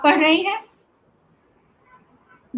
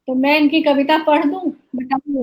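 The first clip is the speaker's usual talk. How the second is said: normal talking voice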